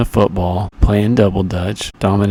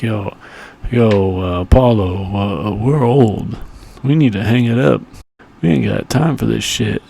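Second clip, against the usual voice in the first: Rocky Balboa impression. Rocky quoted urging retirement to Apollo.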